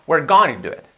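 "going to" reduced nearly to "gonna"; almost gonna. Shown as a demonstration. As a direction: squash "going to" in "We're going to do it" into one quick "gonna". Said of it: "sale casi un gonna".

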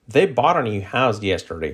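connected, flowing example sentence; natural-speed model sentence. Shown as a demonstration. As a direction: link the words smoothly. Same sentence at natural linked speed.

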